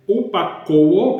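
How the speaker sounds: "upakouo" sounded out slowly as a Greek word; tentative Greek pronunciation. Shown as a demonstration. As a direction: say "upakouo" slowly, stretching the vowels. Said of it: "não sei se é assim que pronuncia". ("upakouo" em grego, pronunciado devagar)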